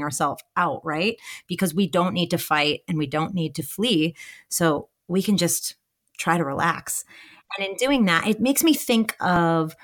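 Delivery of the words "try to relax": breathy hush, as if calming yourself. Shown as a demonstration. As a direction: whisper it, letting the tension go. Demonstrating relaxing, whispered.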